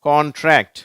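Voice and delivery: கான்ட்ராக்ட் high and loud, NTR blended; joined NTR. Shown as a demonstration. Teacher repeats for learners to practise, joined NTR. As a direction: push out கான்ட்ராக்ட் with joined consonants. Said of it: "இதை நீங்க உச்சரிச்சு பழகுங்க".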